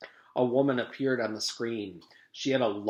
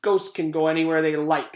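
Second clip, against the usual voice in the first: lightly voiced sly ghost; 3 semitones higher, 7 dB louder than usual. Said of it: "said Missus Gorf".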